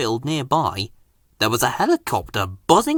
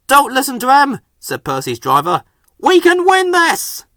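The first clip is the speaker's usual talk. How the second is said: loud and high encouragement; rally the engine on; determined driver; 10 semitones higher, 4 dB louder than usual. A narrator's reading.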